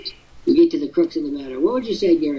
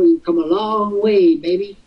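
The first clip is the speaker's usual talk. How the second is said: ad slogan. Retold or imitated. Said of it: "those Virginia Slims commercials".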